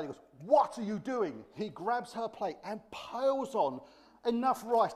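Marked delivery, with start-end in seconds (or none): 0.4-1.4 loud slow what are you doing. Retold or imitated. Host shocked at the small helping, loud slow question. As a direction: call it out, higher and louder, slowly. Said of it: "literally out loud".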